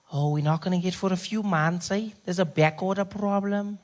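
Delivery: a hint of an unbothered clerk; pharmacy clerk.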